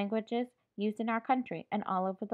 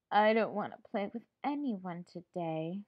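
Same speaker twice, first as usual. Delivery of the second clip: sad. Shown as a demonstration. Teacher showing children how a sad voice sounds, sad. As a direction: act out sadness for the class. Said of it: "I sound sad".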